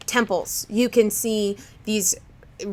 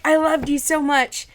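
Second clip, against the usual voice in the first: lightly put-on Irish accent, higher; attempted Irish accent; 4 semitones higher than usual. Co-host voices the dad to his daughter, attempted Irish accent. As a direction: have a half-hearted go at an Irish accent. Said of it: "We're just gonna do American".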